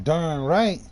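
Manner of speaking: put-on quick sassy country girl reply; imitating a Southern girl. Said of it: "she would be like".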